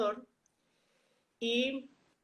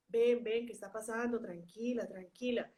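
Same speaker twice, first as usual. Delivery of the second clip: calming herself; 4 dB quieter than usual. Retold or imitated. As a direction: settle the voice down gently. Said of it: "Y yo". (tono suave y tranquilizador)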